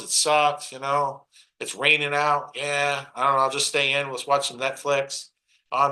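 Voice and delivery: lightly acted resigned complainer; mock defeated griping. Speaker imitates negative people grumbling about bills and rain, mock defeated.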